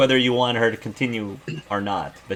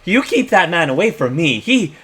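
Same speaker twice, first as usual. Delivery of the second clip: spooked; 6 semitones higher, 3 dB louder than usual. Acted. Energy spooked by Sam.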